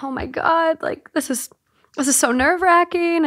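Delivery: mock nervous panic. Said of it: "it's like".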